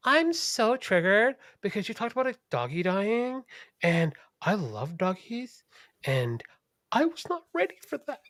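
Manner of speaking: high whiny mock voice of an upset fan; mocking offended listener. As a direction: squeak it out like an overgrown child. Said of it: "be like".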